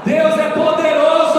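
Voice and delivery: slow, high, loud proclamation; preaching shout. Real, not acted. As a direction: shout God's power to the church. (proclamação gritada, lenta)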